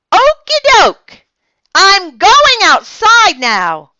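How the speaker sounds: very high, loud, slow calling out; singsong shout to a mother in another room. A narrator's reading. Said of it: "I shouted louder".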